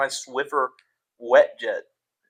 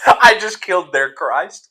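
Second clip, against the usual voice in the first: laughing shout; 3 semitones higher, 4 dB louder, slower than usual. Real, not acted.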